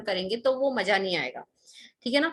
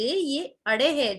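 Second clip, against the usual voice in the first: "अड़े" slow and falling, set apart clearly; stress on अड़े; 3 semitones higher, slower than usual. Shown as a demonstration. Teacher correcting children on the name अड़े, slow and firm. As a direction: land firmly on "अड़े" with a slow fall. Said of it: "नहीं बच्चे".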